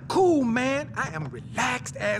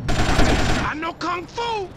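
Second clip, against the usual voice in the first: loud, high, drawn-out yell; battle boast; 5 semitones higher, 7 dB louder, slower than usual. Acted. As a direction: bellow your boast slowly at the foe. Battle boast shouted in a fight.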